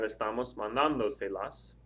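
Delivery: slow demo, "mandando" stressed on "dan"; stress on mandando's A. Shown as a demonstration. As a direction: lean on the "dan" of "mandando", se las trailing after. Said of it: "that stress is three or more back".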